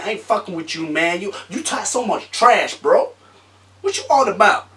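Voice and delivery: mock American street quarrel, pitch climbing; American street accent. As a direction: argue with a trash-talking friend in an American accent. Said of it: "I can do American".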